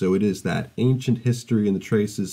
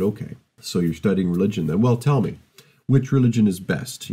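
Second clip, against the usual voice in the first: challenging uncle. Retold or imitated. Irascible uncle at dinner quizzing the student, mildly challenging. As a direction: needle the student with "which religion is best". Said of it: "This irascible uncle of yours has said".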